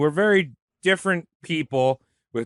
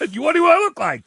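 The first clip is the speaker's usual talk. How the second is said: indignant high voice; 13 semitones higher, 3 dB louder, faster than usual. Retold or imitated. Voicing Jefferson indignant.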